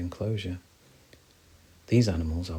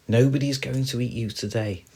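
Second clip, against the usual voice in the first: higher, louder squirrel voice; reassuring squirrel; 5 semitones higher, 5 dB louder than usual. Acted. Squirrel high in the tree to friends, calling down. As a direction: call down assurance from a treetop.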